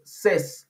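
ses said very slowly with a short e, like "sez"; English says. Shown as a demonstration. Teacher shows the class that says sounds like ses, very slowly. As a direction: stretch ses out so the ending is heard. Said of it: "se vuelve".

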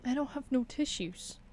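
sigh, then talk through tears; weepy, subdued complaint; tearful. Real, not acted. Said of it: "I'm fucking crying".

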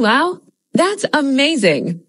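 lively, slow, amazed delivery; expressive wow. Shown as a demonstration. Teacher showing how an excited learner reacts. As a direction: sell the wow with real expression. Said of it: "adds a lot more expression than just saying".

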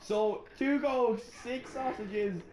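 slow, fussy order repeat, breaking into laughter; mock shop server. Cashier reading back a customer's order, slow and hammed up.

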